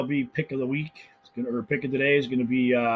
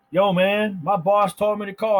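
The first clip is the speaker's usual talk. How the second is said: salesman voice; 8 semitones higher, 5 dB louder than usual. Retold or imitated. Imitating Jordan's call.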